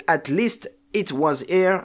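song title read slowly in a clumsy English accent. Real, not acted. Naming the theme song to his co-host, in a clumsy English accent. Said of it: "mon accent anglais qui est catastrophique".

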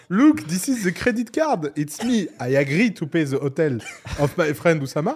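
put-on loud, drawn-out English in thick French accent; hammed-up French-accented English, pitched high; Yomi impression. Mimicking a friend's card authorisation video, in exaggerated French-accented English. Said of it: "français devient plus fort quand tu m'imites en anglais".

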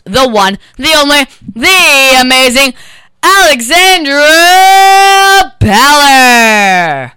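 loud, drawn-out guest introduction; grand entrance announcement. Acted. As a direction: build the hype, stretch the name.

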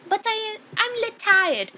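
high cartoonish French accent; mock French accent. Quoting the end of the world video, French accent. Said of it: "Now do a French accent".

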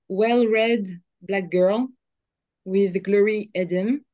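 slow, careful English accent on the title; accent anglais appliqué. Shown as a demonstration. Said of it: "je vais essayer avec mon accent anglais".

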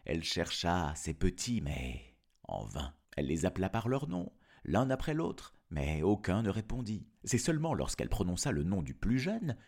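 put-on storyteller reading to children; story narration. Narrator telling of the wolf's trick, story narration. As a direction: tell it as a fairy tale, with lilting phrases.

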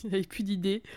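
whispering it under the breath; a dry whispered aside. Real, not acted. (chuchoté)

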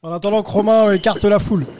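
loud playful call over the noise; yelling from the sidelines. Real, not acted. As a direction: raise your voice over a crowd. Joking over the crowd noise.

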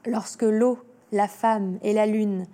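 diction lente et posée de poésie; lecture de poème. Acted. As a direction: dire le poème avec recueillement, sans presser. Lit le poème à voix haute. (lecture lente et solennelle d'une cantate)

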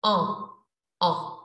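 "On" said through a pinched nose, nasal ah; nasal French "on" demo. Shown as a demonstration. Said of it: "as if you are pinching your nose".

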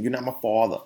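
lightly imitated New Jersey accent. Short man protesting to a taller man, light New Jersey accent. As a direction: put a hint of New Jersey on it. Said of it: "that New Jersey accent".

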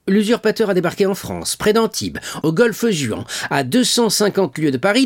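high, loud indignant king; rising royal outrage at the news; outraged. A narrator's reading. King berates the minister, high and loud with outrage.

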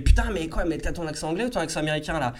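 mock-exasperated "what the hell" quote; mock bafflement. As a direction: act out a confused, mildly exasperated reaction. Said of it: "les gens arrêtent pas de bugger".

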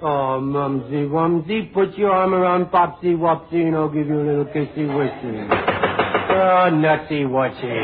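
put-on slow, sugary baby talk to his bride; mock baby talk. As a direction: coo at her like a lovesick baby. Husband baby-talks to new bride.

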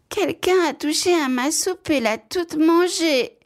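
very high piping little-bear voice; tiny fluty voice. A narrator's reading. Tiny bear finds his soup all eaten, high fluty voice. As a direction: squeak it out as an upset tiny bear. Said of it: "de sa toute petite voix flûtée".

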